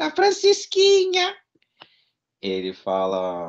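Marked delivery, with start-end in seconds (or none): 0.0-1.3 thin, piping, very high, loud voice. Describing early dubbing of the series, quoting the boy in a thin little Chaves voice. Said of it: "O Chaves está inclusive com a voz fininha".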